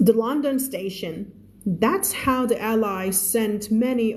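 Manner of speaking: slow, measured English reading; story read-aloud. Acted. Teacher reading a story to English learners, slow read-aloud.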